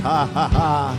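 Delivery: ordinary talk, nothing marked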